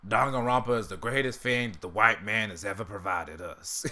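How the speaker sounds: lightly voiced Ruckus praise; Uncle Ruckus voice. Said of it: "say something about Danganronpa in an Uncle Ruckus voice".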